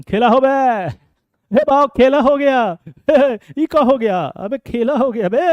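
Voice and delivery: loud, high, laughing cry of triumph; gleeful hype. Acted. Teacher crowing to students that the question got flipped, loud and laughing. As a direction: shout it like a street celebration.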